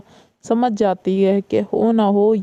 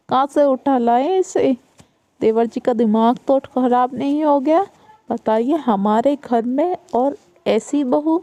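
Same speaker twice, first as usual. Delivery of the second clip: mocking sister-in-law; 3 semitones higher than usual. Elder daughter-in-law mocking new bride.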